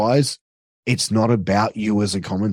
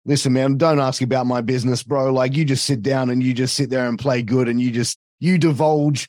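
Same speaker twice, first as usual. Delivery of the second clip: arrogant heel commentator. Acted. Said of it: "give that little bit of arrogance".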